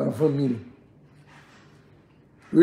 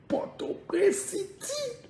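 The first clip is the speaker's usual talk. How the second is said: laughing high drawl; 7 dB quieter, much slower than usual. Pretend. Drawn-out laughing high flourish.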